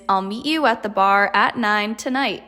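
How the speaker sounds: vary the pitch on "meet you", "bar" and "nine tonight"; undulating tune through "meet you at the bar at nine tonight"; falling-rising intonation. Shown as a demonstration. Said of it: "your voice changes from up and down".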